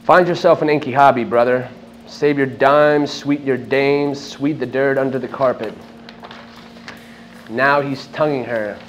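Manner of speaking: measured recitation to an audience, phrase by phrase; poetry-reading delivery, each phrase set apart; literary reading aloud. Acted. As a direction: declaim it as spoken verse, with deliberate pauses between lines. Reads own work to audience.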